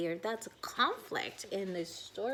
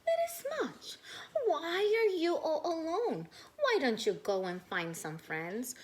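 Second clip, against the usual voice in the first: Mommy Smudge; 6 semitones higher than usual. Acted. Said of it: "Mommy Smudge says".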